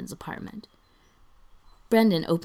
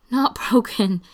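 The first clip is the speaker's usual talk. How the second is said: high, loud words broken by giggles; giggling; 5 semitones higher, 8 dB louder than usual. A narrator's reading. Spencer answers Brendan's teasing, between giggles. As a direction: get it out through the laughter. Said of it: "manages to get out between giggles".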